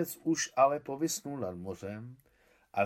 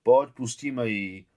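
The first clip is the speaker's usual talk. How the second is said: tearful plea; 9 dB louder, slower than usual. A narrator's reading. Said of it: "poprosil se slzami v očích Feďa".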